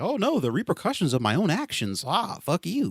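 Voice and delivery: loud, high, whiny mock of a sore loser. Mocking someone facing the repercussions of their actions, loud and whiny. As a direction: ham up the self-pity, then snap.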